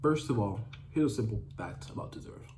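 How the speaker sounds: talking while chewing gum; words round a wad of gum. Real, not acted. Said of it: "I'm chewing gum while I'm doing this".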